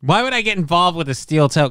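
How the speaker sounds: mimicking the clip. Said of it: "I own that now".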